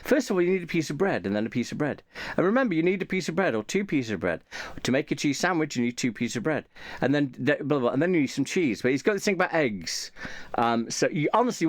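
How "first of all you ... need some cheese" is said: a hint of a deadpan tutorial narrator; mock female voiceover. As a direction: read it like a dead-serious how-to voiceover, only lightly put on. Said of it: "female voiceover".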